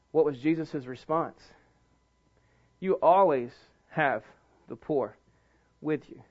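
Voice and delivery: very low, soft, with long pauses between phrases; hushed preaching. Real, not acted. Preacher quoting Jesus' answer about the poor, hushed. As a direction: sink down and space out the words. Preacher drops to solemn hush.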